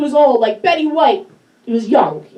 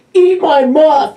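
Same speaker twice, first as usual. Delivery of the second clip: slow, louder mock shout; 3 semitones lower, 4 dB louder, slower than usual. Quoting herself to the crowd, mock shout. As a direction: belt it out like a crude demand.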